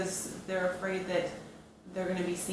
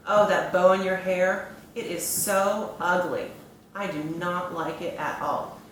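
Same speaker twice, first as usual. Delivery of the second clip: mean teasing; 5 dB louder than usual. Pretend. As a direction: pretend bully, loud emphatic opening jab. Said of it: "my not so nice emoji ball approaches".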